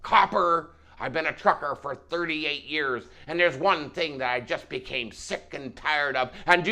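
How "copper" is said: raised, louder commanding voice; forceful repeated summons; commanding call. Acted. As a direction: call him out firmly, voice lifted. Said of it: "He repeated".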